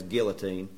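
"guillotine" with the L sounded; hillbilly pronunciation. Shown as a demonstration. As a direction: say "guillotine" as GILL-uh-teen, country style. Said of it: "I think the hillbilly version is".

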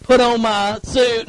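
slow, sulky mock grumble; a deacon's slow, grudging complaint on Sunday morning; grumbling churchgoer. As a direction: drag through it like a reluctant chore. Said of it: "woke up and went".

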